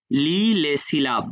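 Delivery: slow model reading of "লি লে সিলাব"; repeat-after-me model. Shown as a demonstration. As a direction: say "লি লে সিলাব" slowly for learners to echo. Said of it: "আমার সাথে বলেন". ("লি লে সিলাব" ধীরে ধীরে, সাথে বলার জন্য)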